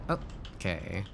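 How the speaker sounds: breathless whispered okay; barely voiced relief. Real, not acted. After rough landing.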